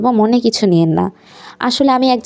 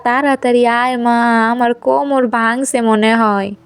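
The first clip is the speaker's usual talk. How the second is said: crying out in pain; 2 semitones higher, slower than usual. Acted. Old mother-in-law fallen in the yard, crying out in pain. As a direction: groan it out, hurt and calling for help.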